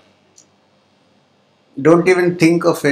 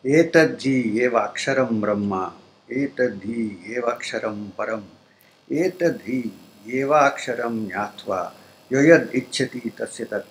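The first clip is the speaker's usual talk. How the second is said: measured, chant-like Sanskrit reading; Sanskrit verse recitation; 3 dB quieter than usual. Real, not acted. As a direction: recite the shloka phrase by phrase.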